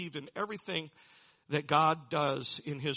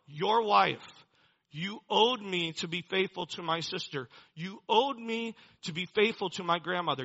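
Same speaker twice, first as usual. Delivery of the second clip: accusing dad; 3 semitones higher, 4 dB louder than usual. Retold or imitated. Voicing the debt to dad.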